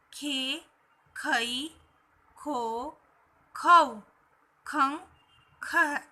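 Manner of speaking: "खे, खई, खो, खौ, खं, खह" one by one with pauses; syllable recitation. Shown as a demonstration. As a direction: drill "खे" to "खह", holding each syllable. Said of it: "की ध्वनियों का जब ख". ("खे" से "खह" तक अलग-अलग उच्चारण)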